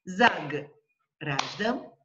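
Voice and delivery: "заграждан" slowly as "заг", pause, "раждан"; split after consonant. Shown as a demonstration. Teacher shows another word split, break after consonant. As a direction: hold "заг" apart from the rest of "заграждан". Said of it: "first syllable ending in a consonant".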